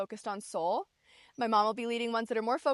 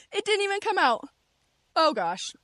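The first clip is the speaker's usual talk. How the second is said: high, loud laughing exclamation; laugh, then squeal it out in disbelief; real amused dismay; 8 semitones higher, 5 dB louder than usual. Real, not acted. Host finds a bug still in the water, laughing dismay.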